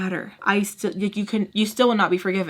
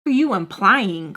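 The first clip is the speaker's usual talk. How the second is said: defensive snap; 4 semitones higher than usual. Retold or imitated. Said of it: "I was getting mad".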